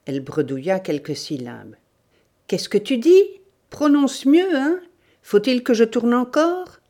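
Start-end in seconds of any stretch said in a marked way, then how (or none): 2.5-6.8 loud, high, impatient questions; bullying. Acted. Bandit to mumbling victim, bullying. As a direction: badger the victim with sharp questions.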